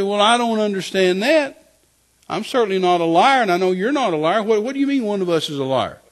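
indignant protest. Retold or imitated. Man protesting to God at being called liar, indignant.

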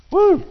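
high, loud whoop; joyful woo. Real, not acted. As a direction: whoop with joy. Preacher shout of joy.

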